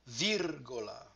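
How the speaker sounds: "Virgola" stressed VIR-go-la, falling; careful model of "Virgola", first syllable stressed; stress on third-last syllable. Shown as a demonstration. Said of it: "stress goes on the third to the last".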